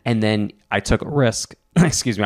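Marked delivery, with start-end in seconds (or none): 1.8-2.2 choking a little mid-sentence; clearing a caught throat. Real, not acted. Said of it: "I'm choking talking about this shit".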